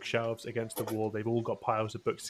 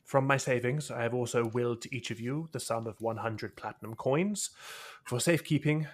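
solemn will reading. Acted. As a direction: read it like a dignified testament. GM reads the will aloud.

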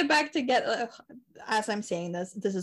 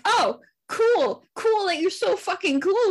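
higher, louder mock-bright "cool"; sarcastic fake cheer; 8 semitones higher, 6 dB louder, slower than usual. Telling the ex sarcastically she's fine with it. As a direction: bite back with sarcastic cheer.

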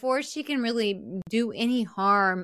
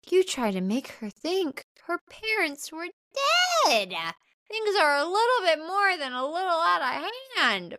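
sarcastic retort; 9 semitones higher than usual. Retold or imitated. Mocking retort to Nancy.

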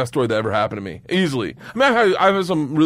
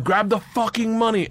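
slow, higher-pitched "fucking money"; emphatic order; 8 semitones higher than usual. Retold or imitated. Gangster repeating his order to student, emphatic on "fucking". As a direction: draw out "fucking" insistently, pitched up.

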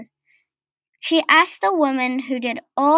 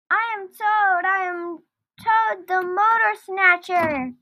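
gleeful boast; 6 semitones higher, 4 dB quieter than usual. A narrator's reading. Toad speeding in the car, gleeful boastful cry. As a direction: proclaim it high, like a distant triumphant cry. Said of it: "He couldn't help shouting either".

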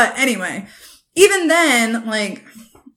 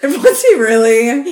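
laughing; 6 dB louder, slower than usual. Real, not acted. Repeated question, laughing.

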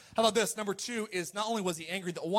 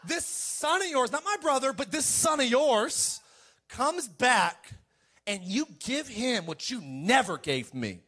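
put-on higher, whiny older brother; resentful older brother; 4 semitones higher, slower than usual. Older son to his father, a higher resentful whine. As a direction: complain like the slighted son. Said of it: "There's an attitude".

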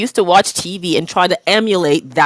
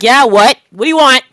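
put-on snippy old self; 3 semitones higher, 6 dB louder than usual. Mocking her negative former self, snippy and loud. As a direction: play your rude former self.

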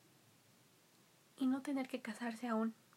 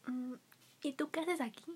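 cartoon princess. Princess asks the stranger.

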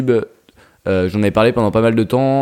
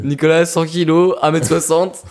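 higher, slow mock announcement of his weight; teasing; 6 semitones higher than usual. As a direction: rib a friend with a fake stat line. Teasing friend about weight.

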